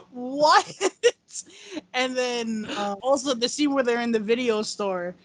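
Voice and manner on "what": laughing. Real, not acted. Laughing at the quote.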